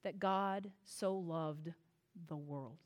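slow, soft, reverent reading; reverent quiet. Shown as a demonstration. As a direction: let the words land slowly and softly. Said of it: "with carefully chosen words".

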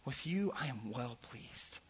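soft, slow, hushed affirmation; quiet proud father speaking to his son; tender fatherly voice. Retold or imitated. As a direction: say it gently to a beloved son. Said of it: "He says to Jesus".

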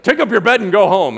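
very loud, high proclamation; hammed-up booming command. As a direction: shout it as a mock order. Imagined command to the healed man.

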